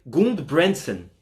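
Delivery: Gundbrandsen said slowly, in two careful parts; slow, careful try at saying "Gundbrandsen"; tentative name pronunciation. Shown as a demonstration. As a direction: sound out "Gundbrandsen" slowly as a best guess. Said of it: "não sei nem como é que fala o nome dele".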